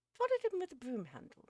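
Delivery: loud, high, emphatic gentleman; hearty suggestion. A narrator's reading. Uckridge advises Missus Beale about the cat, hearty.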